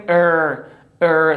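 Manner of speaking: ار rounded lips, tongue back; English R sound. Shown as a demonstration. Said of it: "بلکه باید چی بگیم؟". (ار گرد انگلیسی)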